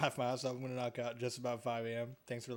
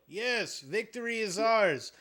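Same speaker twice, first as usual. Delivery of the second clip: high, loud, slow gloating cry; triumphant cheer; 7 semitones higher, 6 dB louder, slower than usual. Real, not acted. Gamer celebrating the cogwheel, high triumphant cheer. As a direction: savour the win out loud. Solves game puzzle, triumphant.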